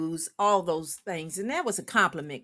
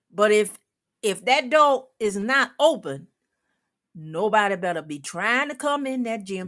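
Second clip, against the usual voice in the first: louder stern warning; firm and loud; 2 semitones higher, 4 dB louder than usual. Retold or imitated. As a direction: lay down the rules firmly. Laying down the law.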